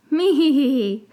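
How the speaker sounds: high squeaky little creature giggle. Acted. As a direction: giggle like a tiny fluffy pet. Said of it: "one of the five puffskins ... said".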